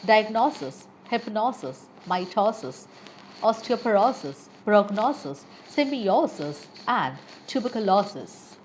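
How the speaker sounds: diagnosis, hypnosis, prognosis, tuberculosis with the long "o" stressed. Shown as a demonstration. Teacher giving learners examples of the osis rule, stressing "o" from "diagnosis" to "tuberculosis". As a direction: lean on the O before the ending: diagNOsis, miTOsis, symbiOsis. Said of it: "primary stress is placed on the syllable in which".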